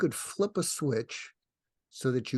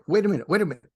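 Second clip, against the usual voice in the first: loud, higher, urgent cut-in; acted interruption; 4 semitones higher, 7 dB louder, much faster than usual. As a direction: halt someone who is yelling. Acting interruption of yelling person.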